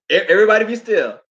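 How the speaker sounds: put-on an old grandma telling the children to listen; grandma hushing the kids.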